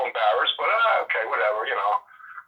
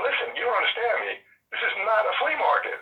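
irritated shop owner; 10 semitones higher than usual. Retold or imitated. Shop owner refusing again, irritated.

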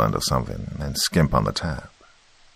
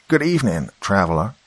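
big enthusiastic voice; 3 semitones higher than usual. Retold or imitated. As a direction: greet like an overjoyed host. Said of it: "in this big, enthusiastic voice".

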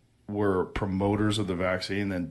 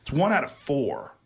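usual speaking voice

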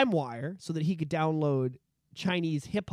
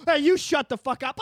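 less shrieky comeback, moderately high; mock angry retort; 6 semitones higher, 4 dB louder than usual. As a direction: throw it back as the second brawler. Second man's retort in acted quarrel.

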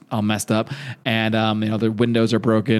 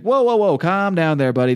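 high, louder whoa easing a panicking man; calming whoa; 5 semitones higher, 3 dB louder than usual. Retold or imitated. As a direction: settle a startled stranger fast. Dad calming upset Rick.

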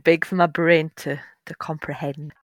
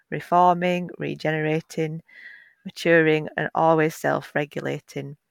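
reading aloud. Acted. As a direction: read it like a calm nature text. Reads a nature passage aloud.

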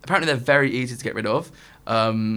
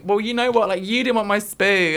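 mock bickering; 8 semitones higher, 4 dB louder than usual. Acted retold couple's quarrel.

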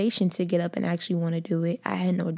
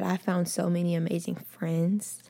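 whispered; 6 dB quieter than usual. Real, not acted. Whispered aside about friends.

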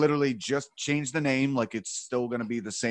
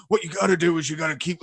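a hint of big dumb-guy voice, a touch higher and louder; Neil's big stupid voice; 4 semitones higher, 4 dB louder, faster than usual. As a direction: lightly imitate a big, dopey loudmouth. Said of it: "he has that big, stupid voice".

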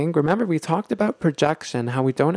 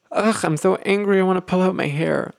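mock exasperated outburst, pitched higher; angry venting; 4 semitones higher than usual. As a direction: act out a frustrated partner venting. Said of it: "let's say that someone's very, very angry".

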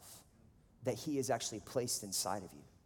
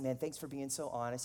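gently understated, imitating a kind listener; reply softly and kindly, lightly acted; kind and quiet; 3 dB quieter than usual. Friend thanking him for honesty, kind and quiet. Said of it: "He's very kind. He's very quiet".

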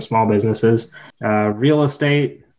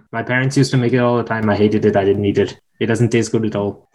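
put-on light Indian accent; 3 semitones lower than usual. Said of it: "say this in an Indian accent here".

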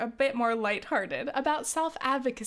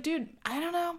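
defensive shrug; 7 semitones higher than usual. Retold or imitated. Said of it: "I was like".

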